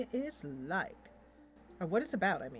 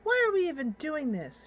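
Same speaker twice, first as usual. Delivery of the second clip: higher and louder exasperated question; frustrated; 7 semitones higher, 5 dB louder than usual. Acted. Alicia venting to herself, exasperated and louder. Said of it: "She is so frustrated".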